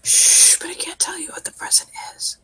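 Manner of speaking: shushing, then a soft secretive whisper. Acted. Drugged patient guarding his surprise, whispering. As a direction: keep it a hushed secret. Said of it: "He whispers".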